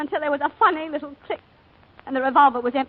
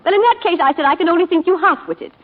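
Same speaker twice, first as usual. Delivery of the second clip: higher and louder, sharply indignant; wife retelling how she put down her visitor, indignant and louder; indignant retort; 3 semitones higher, 5 dB louder than usual. Retold or imitated. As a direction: throw the insult back at him, scornfully. Retelling rebuffing him indignantly.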